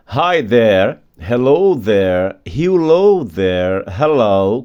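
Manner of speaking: slow, clear model greetings; greeting demo. Shown as a demonstration. Teacher modeling greetings slowly to class. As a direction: say each greeting slowly for students. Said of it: "várias maneiras de falar olá ou oi".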